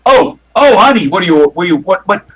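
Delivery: put-on burly bouncer suddenly doting on the fainting girl; bruiser fussing. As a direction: fuss over her like a worried thug. Bruiser fussing over sick woman.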